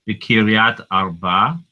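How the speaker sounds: slow "Kiryat Arba", syllables apart; teacher modeling "Kiryat Arba"; Hebrew place name. Shown as a demonstration. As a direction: pronounce "Kiryat Arba" carefully. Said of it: "Kiryat Arba is actually the name".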